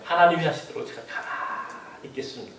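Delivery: sorry, Lord, said meekly; a pastor confessing to God, hushed; humble confession. Retold or imitated. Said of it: "고백했어요".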